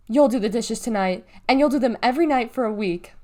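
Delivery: fuming. Acted. Mom fumes at Galveston in her face, angry. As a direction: lay down the punishment in her face.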